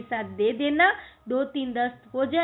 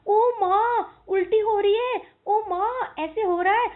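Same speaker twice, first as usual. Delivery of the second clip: higher, louder hammed-up crying complaint; loud mock crying; 9 semitones higher, 4 dB louder than usual. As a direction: wail it like a child faking pain. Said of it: "तब मोहन जोर जोर से". (नाटकीय ज़ोर से रोना)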